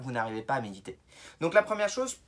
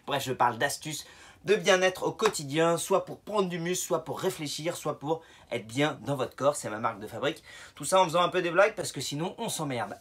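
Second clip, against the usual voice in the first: winded from climbing the stairs; talking while catching his breath; 3 semitones higher, 4 dB louder than usual. Real, not acted. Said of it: "Pourquoi je suis essoufflé".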